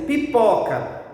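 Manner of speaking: pipoca said slowly with a strong middle syllable PO; stress on PO. Shown as a demonstration. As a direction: lean on the PO in pipoca. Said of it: "se eu disser assim". (pipoca com a sílaba PO bem forte)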